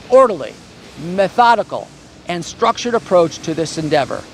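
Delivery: lightly imitated professor, measured and deliberate; imitating my professor. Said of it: "let me see if I can imitate, uh, my professor".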